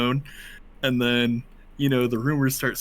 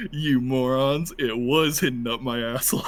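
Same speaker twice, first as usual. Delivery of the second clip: smug gloating. Retold or imitated. Prisoner gloating to fooled guards, mock smug. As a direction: draw it out, breaking into a laugh.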